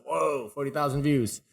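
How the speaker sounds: mildly wowed at the number; amazed. Retold or imitated. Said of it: "I felt like that was a lot".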